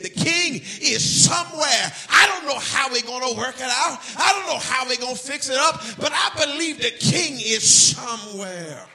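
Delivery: loud, rising gospel preaching; preaching at full force. Acted. Preacher urging the church to praise God anyhow, full force. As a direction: build the congregation up to praise.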